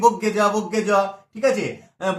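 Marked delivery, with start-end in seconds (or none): 0.1-0.9 বগ্গে জ run together as "bogge-jo", the r lost; common mispronunciation. Retold or imitated. Teacher quoting how people usually say it, casually slurred. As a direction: say বগ্গে জ with a doubled g and no r. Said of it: "আমরা বলি কি".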